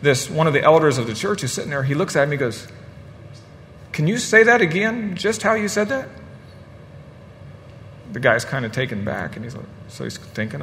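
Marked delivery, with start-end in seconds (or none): 3.9-6.1 acted challenge. Elder interrupting lawyer, acted.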